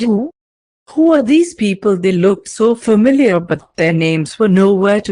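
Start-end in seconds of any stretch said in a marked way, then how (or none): 0.0-2.0 screaming. Acted. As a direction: scream it out in confusion. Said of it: "his mind screamed".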